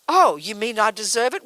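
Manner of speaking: affronted, rising "Oh, you mean I deserve it?"; mock offence at being blamed; indignant question. Student taking offence at being told they deserve suffering, indignant. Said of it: "we'll say".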